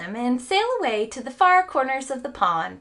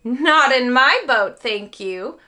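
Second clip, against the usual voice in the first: quick reply; 2 semitones higher, 7 dB louder, slower than usual. A narrator's reading. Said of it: "replied the man quickly".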